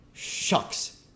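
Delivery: hushed, dismissive scoff; very sarcastic. A narrator's reading. King brushing off the duke, very sarcastic. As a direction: scoff it out with contempt. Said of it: "very sarcastic".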